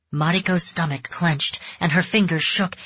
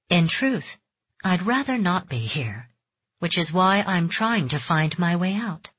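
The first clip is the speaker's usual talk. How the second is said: calm and soft. Acted. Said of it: "she spoke calmly, softly".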